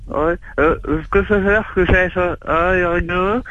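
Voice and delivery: high, garbled words with tongue hanging out; mock tongue-trapped mumbling; tongue held out. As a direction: talk as if something dangles from your tongue. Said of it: "laisse pendre la chaussure au bout de la langue".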